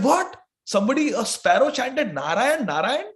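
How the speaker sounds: sharp high "What?" then questioning; surprised wife. Acted. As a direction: react in startled disbelief.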